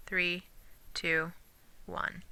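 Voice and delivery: counting backwards softly. Shown as a demonstration. Teacher softly counts syllables backwards for students. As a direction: drop the voice right down on "Three, two, one". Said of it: "you actually count the other way".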